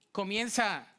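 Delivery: ordinary delivery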